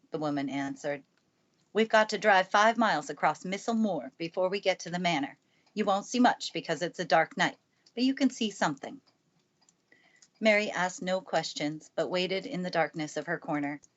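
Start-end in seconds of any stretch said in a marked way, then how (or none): 1.7-9.0 lightly voiced brisk housekeeper, a bit louder; a hint of a brisk housekeeper; Mrs. Medlock. Housekeeper telling the girl to wait and watch, lightly brisk.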